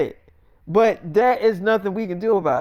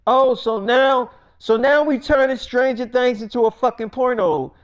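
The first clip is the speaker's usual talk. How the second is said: indignant; 6 semitones higher than usual. Acted. Millie objects to producers about the sex scene, indignant. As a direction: stretch the first words, then protest indignantly.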